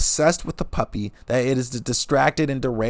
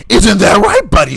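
put-on high, loud cooing baby talk; high doggy baby talk; 9 semitones higher, 12 dB louder than usual. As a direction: coo at the dog, mocking the date. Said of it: "The dog's sleeping in the cage".

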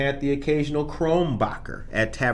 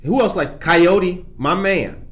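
hype shout-out; 4 semitones higher, 4 dB louder, slower than usual. Real, not acted. Hyping up listeners in chat.

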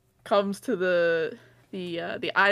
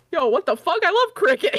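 high, loud, laughing mock excitement; mock excited Doctor Lewis; 7 semitones higher, 6 dB louder than usual. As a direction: ham up a thrilled guy finding cricket. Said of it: "Doctor Lewis was like".

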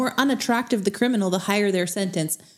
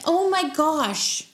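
stunned oh my gosh; 6 semitones higher, much slower than usual. Real, not acted. Distressed by the spoiler.

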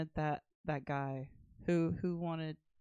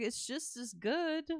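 put-on girl's retort; 7 semitones higher, slower than usual. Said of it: "But she's like".

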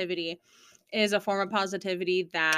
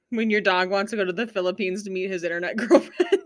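laughing; 3 dB louder than usual. Real, not acted. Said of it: "this is what my sister just sent me".

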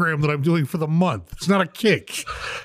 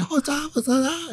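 put-on Asian accent; slower than usual. Practising his Mandarin greeting, high and accented. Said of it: "with your Asian accent".

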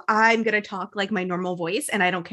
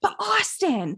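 high, drawn-out put-on voice; mock lovesick whine; 9 semitones higher, much slower than usual. Mocking Sierra's infatuation with Austin, lovesick whine. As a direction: stretch it out high, mocking a besotted girl.

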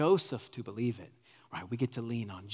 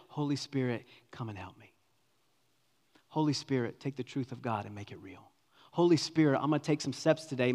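prayer. Shown as a demonstration. Example prayer spoken aloud.

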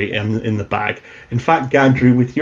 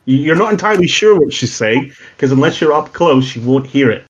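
usual speaking voice

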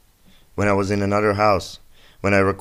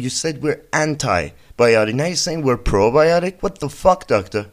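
mock outrage at doctor; 5 semitones higher than usual. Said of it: "I was like".

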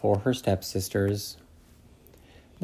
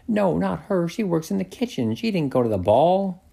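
higher, sniffy stepmother voice; 6 semitones higher than usual. Acted. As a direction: read it as the haughty stepmother. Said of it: "Her stepmother said".

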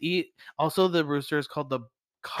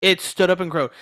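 louder, punched repetition; emphatic repeat; 6 dB louder than usual. Retold or imitated. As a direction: hammer the punchline home.

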